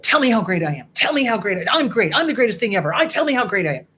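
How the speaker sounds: a touch of a loud self-praising narcissist; mock narcissist. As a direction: ham up a compliment-fishing narcissist. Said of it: "screams to the world".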